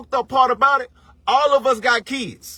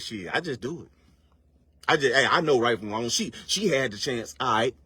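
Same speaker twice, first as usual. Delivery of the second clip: much softer, low, shrugging it off; dismissive mutter; 11 semitones lower, 6 dB quieter than usual. Retold or imitated. Mocking the crowd's excuse, a soft dismissive mutter. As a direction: brush it off under your breath. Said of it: "Most of y'all be like".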